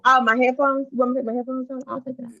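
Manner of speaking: muffled, like through a wall; headphone-muffled voice. Real, not acted. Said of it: "you sound muffled".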